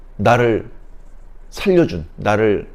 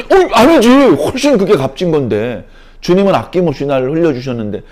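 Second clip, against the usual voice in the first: moved realization; 4 semitones higher, 5 dB louder than usual. Acted. Moved believer answers the Spirit.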